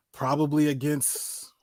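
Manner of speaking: unvoiced whispered question; whispering. Real, not acted. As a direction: breathe the question softly. Whispered aside.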